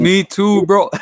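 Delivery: high, loud "me too"; eager agreement. Real, not acted. Friend confesses he also failed, loud and eager. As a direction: jumps in to say it happened to him too. Admits failing A levels too.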